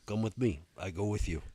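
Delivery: touch of a Russian accent, imitated. Big Russian offers to escort man with cart, Russian-accented. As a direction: give the invitation with a light Russian accent. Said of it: "a seven-foot-tall Russian dude".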